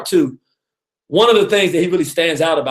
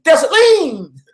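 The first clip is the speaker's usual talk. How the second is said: loud drawn-out shout; 10 semitones higher, 6 dB louder, much slower than usual. Shown as a demonstration. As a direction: shout the name high and long. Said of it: "You gotta say".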